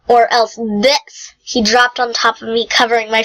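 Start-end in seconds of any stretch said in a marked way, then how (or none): 0.1-1.3 slow playful threat. Acted.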